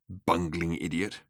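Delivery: self-reproach. A narrator's reading. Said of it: "Why on earth had he said".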